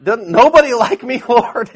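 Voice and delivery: high, loud mock whine to God; hammed-up poor-me cry to the Lord; self-pitying whine. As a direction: playfully plead for some love.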